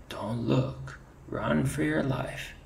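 high rising panicked cry; panicked warning. Retold or imitated. Ferret reenacting his cry to his mate, panicked. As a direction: urge flight in fear.

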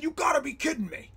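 high, stunned disbelief; retelling a freak-out in disbelief. Retold or imitated. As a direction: say it like you can't believe it. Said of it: "I freaked out".

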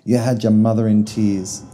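loud, stern scolding; father scolds Millie in fury; furious father. Acted. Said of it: "Father was furious".

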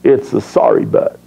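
low aside. Real, not acted. Deadpan aside after punchline.

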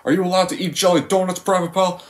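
high, barking drill sergeant voice; Sergeant Hartman. Retold or imitated. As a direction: yell at the recruit from above. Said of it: "How does the scene go?".

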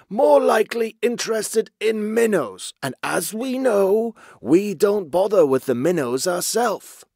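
high, loud, placating character voice; anxiously reassuring underling. A narrator's reading. Basil heading off his chief's bellow, high anxious reassurance. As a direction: hurry to soothe the boss in a high voice. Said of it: "Basil added quickly".

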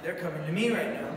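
laughing nervously as they close in; a nervous chuckle through the words. Retold or imitated. Homeless man seeing evangelists approach, laughing nervously.

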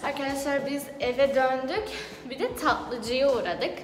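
breathless after rushing home; out of breath. Real, not acted. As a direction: talk while catching breath. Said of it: "çok nefes nefese kaldım ya şu an".

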